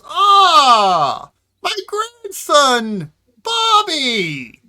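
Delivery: put-on high, shouted old-timer's delight; old man. Old Wilbur mistaking Ned for his grandson, crying out. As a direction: cry out, drawing each word out slowly. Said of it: "he is an older gentleman, quite old".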